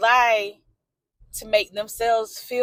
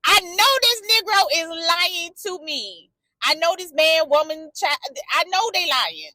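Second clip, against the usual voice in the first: knowing sass; 7 semitones higher than usual. Retold or imitated. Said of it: "I'm sitting here like".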